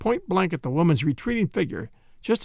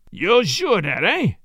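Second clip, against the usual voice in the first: menacing Italian tough, rising at the end; unpleasant leer; 3 semitones higher, 4 dB louder, slower than usual. Acted. Italian taunting the detective over the gun, leering. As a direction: needle him with a nasty leer. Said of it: "leering unpleasantly".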